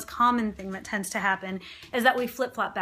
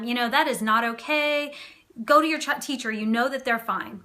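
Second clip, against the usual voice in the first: strict parent. Shown as a demonstration. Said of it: "If you're being really strict or, or firm".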